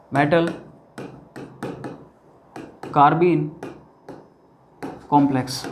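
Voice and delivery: each word set apart by long pauses; slow dictation. Shown as a demonstration. Teacher dictating to students, slow and spaced. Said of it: "एक होता है अपना metal".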